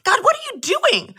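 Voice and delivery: high, exasperated plea to God; frustrated cry to God. Retold or imitated. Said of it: "get angry and I started to get frustrated with God".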